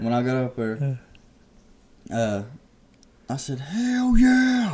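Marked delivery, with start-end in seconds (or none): 3.6-4.8 mock, very high, loud, thrilled excited holler. Retelling shooting a first turkey: imitating own loud excited shout. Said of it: "got real loud".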